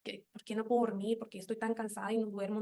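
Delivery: low, hushed and worn out; tired bewildered murmur. Retold or imitated. Telling her sleepless nights, a low weary murmur. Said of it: "yo decía".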